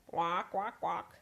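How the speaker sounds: honked "quack, quack, quack"; goose quack. Acted. Goose Katerina answers the banker with quacks.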